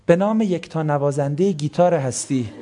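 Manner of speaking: lightly imitating a poetic TV host's opening; mock presenter. The preacher mocking a presenter behind the microphone, mild parody. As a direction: parody the host's flowery announcement. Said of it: "میره پشت میکروفون".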